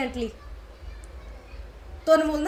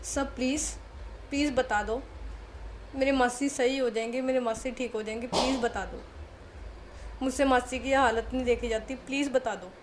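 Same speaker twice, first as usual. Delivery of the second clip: crying plea. Retold or imitated. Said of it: "वो genuinely रोने लगी थी".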